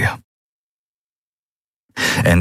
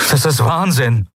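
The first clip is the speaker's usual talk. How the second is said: a higher cry of despair; exclaiming; 8 semitones higher than usual. A narrator's reading. Kai cries out at his mad plan, raised voice. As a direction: call it out in disbelief. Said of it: "rief er".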